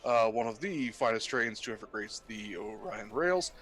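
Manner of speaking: pilot announcement over intercom; captain on the PA, measured and calm; pilot cockpit headset. Acted. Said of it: "sounds like a legit pilot".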